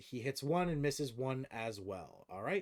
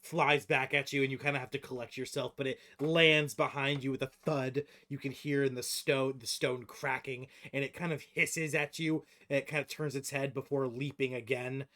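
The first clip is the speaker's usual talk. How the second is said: game master narration; 4 semitones higher, 8 dB louder than usual. Acted. Game master describes the leap.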